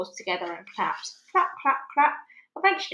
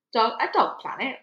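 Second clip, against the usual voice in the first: sniffy major; 2 semitones higher than usual. Acted. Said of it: "sniffed Major".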